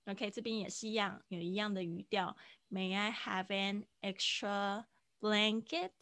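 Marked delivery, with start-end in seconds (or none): 2.7-5.9 slow linked demo. Shown as a demonstration. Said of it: "这个have跟an可以连音".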